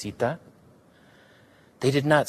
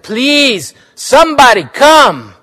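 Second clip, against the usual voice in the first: much higher, loud cry for help; a loud, alarmed cry for help; shouted for help; 11 semitones higher, 10 dB louder, slower than usual. Acted. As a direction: call the whole house in alarm. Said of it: "Willa shouted".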